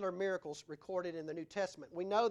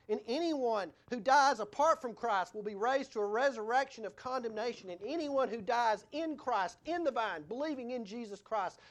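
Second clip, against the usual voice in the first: forceful preaching; 3 semitones higher, 5 dB louder than usual. Acted.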